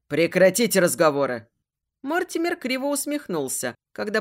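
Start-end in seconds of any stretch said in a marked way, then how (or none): 0.1-1.5 louder barked order; rough shout. Acted. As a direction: bark the command harshly. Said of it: "грубый окрик лейтенанта".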